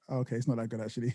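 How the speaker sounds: soft, let-down aside; a flat little letdown; deflated. Retold or imitated. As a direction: quietly take it back. Deflated on waking.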